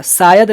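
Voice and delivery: "शायद" said as "sayad", plain s; mispronounced s sound. Shown as a demonstration. Teacher rejecting the error, "शायद" with s for sh. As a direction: start "शायद" on s, losing the sh. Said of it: "नहीं".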